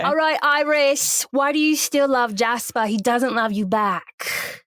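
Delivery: slow, exasperated English friend; smoky friend. Acted. Smoking friend confronts Iris about loving Jasper, slow mock English. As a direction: play the friend confronting her, drawn out. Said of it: "I'll be the smoky friend".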